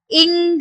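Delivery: "இங்" drawn out with a ringing ng; demonstrated ING sound. Shown as a demonstration. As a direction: stretch "இங்" slowly as one sound. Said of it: "அப்படின்ற sound". ("இங்" என்று இழுத்து உச்சரித்து)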